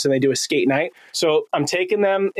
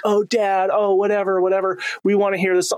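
put-on higher-pitched dismissive kid groaning at dad; mock eye-rolling teen; 4 semitones higher than usual. Kids complaining to dad about questions, mock eye-rolling. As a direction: imitate teenagers brushing dad off. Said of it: "roll their eyes and be like".

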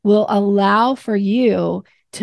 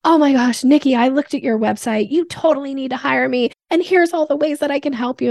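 gushing pushy pitch; 6 semitones higher than usual. Retold or imitated. Imitating a pushy stranger pitching to Nikki. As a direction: come on far too strong. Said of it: "somebody coming up to us being like".

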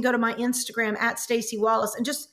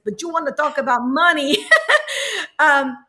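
impression of a rapper; 3 dB louder than usual. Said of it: "let me try to do his accent".

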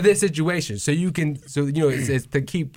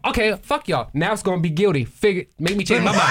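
mock outburst; 4 semitones higher than usual. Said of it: "I'd have said some shit like this".

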